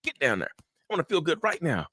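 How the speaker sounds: whiny demand for instant comfort, lightly voiced; emotional brain. Emotional brain arguing back at the logical brain, impatient. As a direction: play an impatient inner voice, rushed at first. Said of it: "The emotional brain like".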